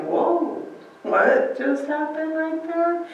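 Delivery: high, slow, amazed whoa; astonished disciple. Retold or imitated. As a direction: pitch the wonder high and draw it out. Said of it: "they're probably like".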